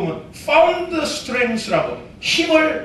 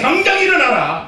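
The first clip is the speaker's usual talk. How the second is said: call to repeat; 4 semitones higher than usual. Shown as a demonstration. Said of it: "따라합시다".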